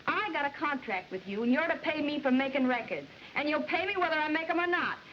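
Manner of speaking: put-on Southern accent coming out as she protests. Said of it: "Phoebe, your southern accent".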